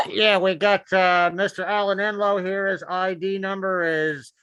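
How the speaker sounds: lightly voiced police officer on the radio; a hint of deadpan cop dispatch; joking cop. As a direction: play a wisecracking cop calling it in. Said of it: "one cop who thinks he's a comedian".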